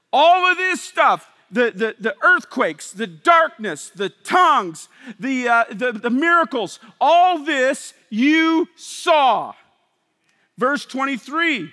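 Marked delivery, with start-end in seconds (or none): 0.1-9.5 loud insistent listing; preaching as the apostle; voicing Peter. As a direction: pound each wonder home. Peter listing wonders to crowd.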